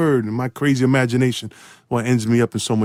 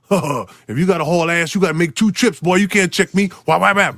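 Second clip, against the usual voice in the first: Larry Bird trash talk; 4 semitones higher than usual. Retold or imitated. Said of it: "he look at Rick and say".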